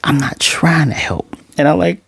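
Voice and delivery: whispered secret aside; hushed, voiceless retort; inner thought. Retold or imitated. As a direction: imitate a private thought under the breath. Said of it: "in the back of her mind".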